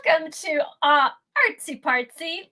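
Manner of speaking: high, gushing mock host welcome; mock show host. Co-host handed the floor opens the show, mock host. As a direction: play up a grand show opening.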